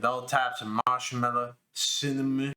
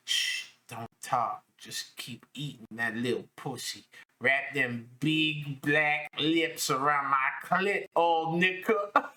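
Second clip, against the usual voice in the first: mock seductive hush. Narrator quotes her own commands.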